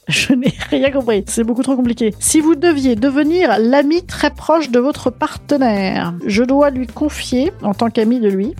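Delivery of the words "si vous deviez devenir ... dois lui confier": slow, deliberate read-out; slow rereading. Real, not acted. Podcaster rereading a question she didn't understand, slow and deliberate. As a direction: spell the question out slowly.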